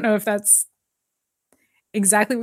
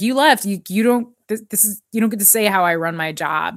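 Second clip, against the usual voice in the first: mock rant; 3 dB louder than usual. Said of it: "And he's ranting".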